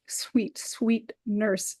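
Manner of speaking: breathy whispered sweet. Acted. Juliet coaxing her nurse for news, whispering.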